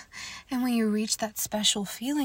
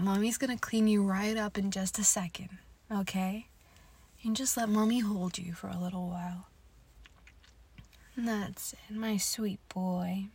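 whispering. Acted. Whispered intimate roleplay.

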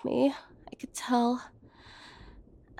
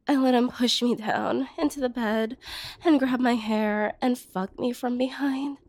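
normal talking voice

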